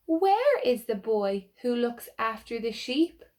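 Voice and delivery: slow, rhythmic sing-song recital; nursery rhyme recitation. Acted. Saying the rhyme Little Boy Blue to children, rhythmic recital. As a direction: chant it for little ones.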